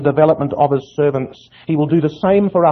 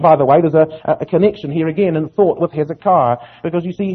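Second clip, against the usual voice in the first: usual speaking voice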